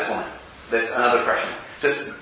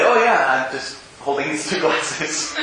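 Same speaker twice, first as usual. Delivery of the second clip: mock nonchalant; slower than usual. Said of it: "You ever have a nonchalant".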